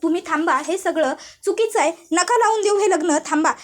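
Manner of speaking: brother yelling to stop it; mock angry yell. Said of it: "दादासुद्धा ओरडत असतो".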